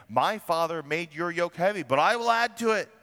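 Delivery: the king's harsh reply building up. Acted. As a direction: lord it over them. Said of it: "answered them harshly".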